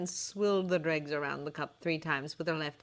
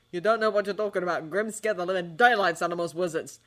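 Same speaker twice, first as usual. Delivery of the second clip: annoyed; 2 semitones higher, 5 dB louder than usual. Acted. Ron infuriated.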